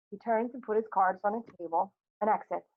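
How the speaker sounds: ordinary delivery, nothing marked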